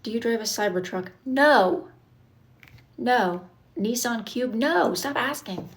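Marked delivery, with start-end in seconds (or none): 1.2-5.7 exasperated no. Real, not acted. Chat keeps asking about her car.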